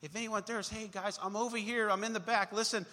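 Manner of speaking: mock meek calling from the back; a weak little call to the crowd; timid calling. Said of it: "That's different than".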